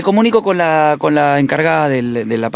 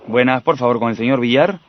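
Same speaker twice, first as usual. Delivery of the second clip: lower, formal club employee; low man's voice; 6 semitones lower than usual. Acted. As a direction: put on a lower gentleman's voice. Prankster uses low male voice.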